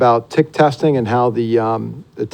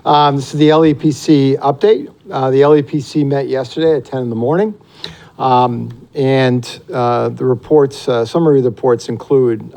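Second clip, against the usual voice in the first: basketball coach voice. Real, not acted. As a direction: project like a coach in a gym. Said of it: "I'll put my basketball coach voice on then".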